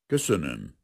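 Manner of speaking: cold, restrained thanks; icy. A narrator's reading. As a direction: dismiss the prisoner frostily. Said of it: "mondta fagyosan a tiszt". (fagyos, kimért hang)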